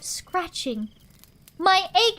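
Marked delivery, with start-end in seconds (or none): 1.6-2.2 louder, higher excited cry; shouted. A narrator's reading. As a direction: call out in delight. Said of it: "shouted Horton".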